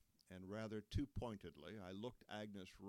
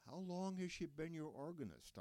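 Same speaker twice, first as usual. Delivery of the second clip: rising question; 8 semitones higher than usual. Retold or imitated. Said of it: "my voice rising with the question".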